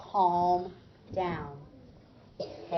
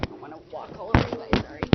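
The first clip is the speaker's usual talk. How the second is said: whispered aside; 4 semitones lower, 6 dB louder, faster than usual. Real, not acted. Teacher aside while moving.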